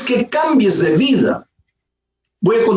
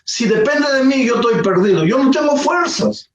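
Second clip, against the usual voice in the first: a lightly voiced, raised desperate plea; tearful pleading prayer; 4 semitones higher than usual. Broken man prays in an empty church, mild tearful pleading. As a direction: beg God higher and more urgently, a touch of tears. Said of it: "llorando y dijo".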